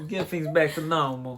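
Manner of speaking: playful try at an American accent; attempted American accent. Shown as a demonstration. Partner having a go at the Texas question, attempted American accent. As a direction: put an American twang on "normal". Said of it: "Say normal in an American accent".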